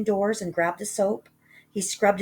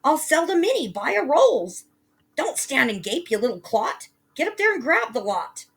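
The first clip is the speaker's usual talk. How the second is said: much higher, loud greedy shout; loud yell; 8 semitones higher, 5 dB louder than usual. Acted. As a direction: shout for joy at the gold. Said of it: "She yells out loud".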